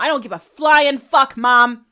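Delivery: loud angry yell; furious shout. Real, not acted. Daughter yells at her mother over her color, furious.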